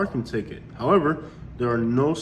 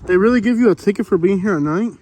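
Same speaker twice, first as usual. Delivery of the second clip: louder, higher frustrated questioning; real indignant rant; 4 semitones higher, 3 dB louder than usual. Real, not acted. Vlogger ranting to camera about unposted signs, indignant. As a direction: demand answers out loud. Outraged at the parking ticket.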